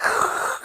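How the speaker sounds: short unvoiced rush of breath; imitated noise. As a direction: blow out a brief noise effect. Imitates sound while backing out.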